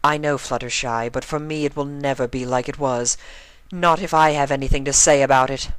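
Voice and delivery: high determined vow; firm resolve. A narrator's reading. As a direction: declare it with conviction. Rarity vows firmly.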